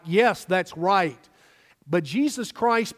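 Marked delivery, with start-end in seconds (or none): 0.0-1.3 slow affirming agreement. Shown as a demonstration. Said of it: "like we do today".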